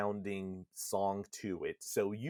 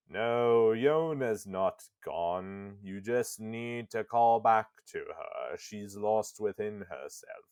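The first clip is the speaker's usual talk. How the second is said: Weiss. Acted. Disembodied book guiding Nier back to Yona, booming and solemn. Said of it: "Weiss's disembodied voice just booming through the room".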